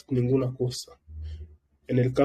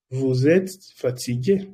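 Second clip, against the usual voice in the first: Vous êtes fatigué slowly, each word clear; slow clear repeat. Shown as a demonstration. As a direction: spell it out slowly for learners. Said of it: "si alguien te pregunta".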